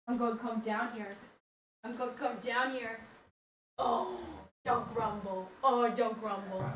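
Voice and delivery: soft cooing to a dog; hushed pet talk; gentle soothing. Real, not acted. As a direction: creep in quietly, murmuring to the pet.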